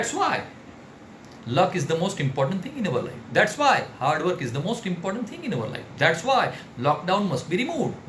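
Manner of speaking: very slow, drawn-out declarations; slow mock oration. Shown as a demonstration. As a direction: parody a speaker who strays. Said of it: "वो short and sweet होना चाहिए". (धीमे, खिंचे हुए अंदाज़ में)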